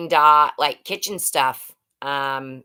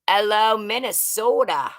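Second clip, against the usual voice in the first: put-on playful, higher-pitched Minnesota accent; 5 semitones higher than usual. Streamer greeting a Minnesota viewer, imitated Minnesota accent. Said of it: "Is that how you talk?".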